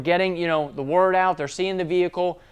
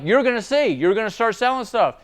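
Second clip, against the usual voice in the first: yelling back; 6 semitones higher than usual. Retold or imitated. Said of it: "yelling back and forth".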